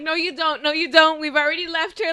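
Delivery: insistent refusal. Retold or imitated. Friend stopping her going back, insistent refusal. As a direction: talk her out of it firmly. Retold urging friend not to return.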